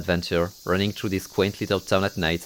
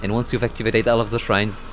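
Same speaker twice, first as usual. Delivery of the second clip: epic narration. Acted. Narrator guides the girl up the mountain, solemn. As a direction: narrate the climb like a legend.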